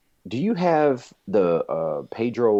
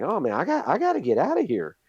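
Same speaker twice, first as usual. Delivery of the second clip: mock panic; 8 semitones higher than usual. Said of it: "I'm like".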